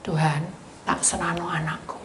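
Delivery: hushed, whispered surrender; quiet prayer. Retold or imitated. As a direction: pray under your breath. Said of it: "Dia doa gitu".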